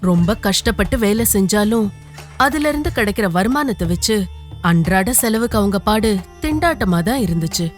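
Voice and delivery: plain reading voice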